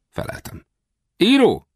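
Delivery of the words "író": high, louder puzzled question; baffled echo. Acted. Westerner hearing a stranger call himself a writer, high and baffled. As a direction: repeat the unknown word in high bafflement.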